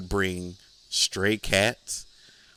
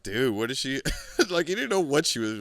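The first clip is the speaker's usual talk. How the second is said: laughing disbelief; 5 semitones higher, faster than usual. Real, not acted. Laughing at gross memory.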